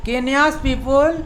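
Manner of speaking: very slow, careful teacher reading; slow model sentence. Shown as a demonstration. Teacher reads the example sentence slowly to students. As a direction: spell it out word by word. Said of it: "तो इसको कैसे बोलेंगे".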